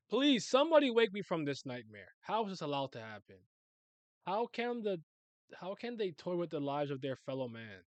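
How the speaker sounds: lightly acted desperate plea; pleading. Manga victim begging to be woken from nightmare, pleading.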